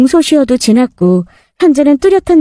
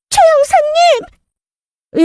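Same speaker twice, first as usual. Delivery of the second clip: high, slow gasping cry of the name; shocked gasp; much slower than usual. Acted. Fugitive stepmother gasps at the detective, shocked. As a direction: recoil in shock.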